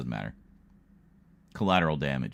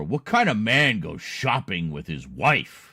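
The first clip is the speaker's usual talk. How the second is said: mocking quote; 3 dB louder than usual. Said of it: "His words literally were".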